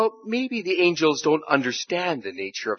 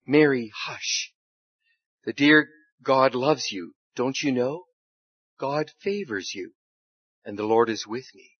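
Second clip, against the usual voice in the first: put-on calm her like a frightened child; softened voice. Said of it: "softened his glorious voice".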